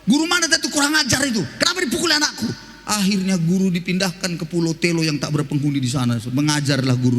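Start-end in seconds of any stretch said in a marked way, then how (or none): 0.0-2.5 angry parent. Retold or imitated. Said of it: "langsung datang mama bapaknya".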